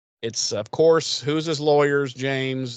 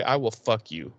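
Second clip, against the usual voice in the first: mock thug threat. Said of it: "I thought you were gonna say".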